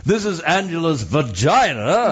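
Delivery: mock-formal BBC announcer; hammed-up British broadcast voice; very proper. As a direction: announce it with exaggerated propriety. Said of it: "Very, very proper".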